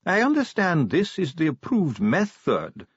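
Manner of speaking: a stiff dwarf bureaucrat, precise; dwarf official. Acted. Ardent's dwarf voice.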